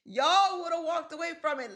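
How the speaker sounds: high, laughing repeat; laughing disbelief. Real, not acted.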